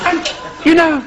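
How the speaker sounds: affected, halting English radio-preacher voice; preacher's "you know". Acted. Nigel drawing a moral for listeners, affected preacherly pauses. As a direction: deliver it as a patronising broadcast moral. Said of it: "you know" is the key".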